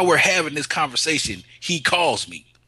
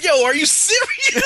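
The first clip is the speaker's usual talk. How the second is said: high, louder, slow are you serious; disbelief; 6 dB louder than usual. Retold or imitated. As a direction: stretch out the disbelief. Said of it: "They're like".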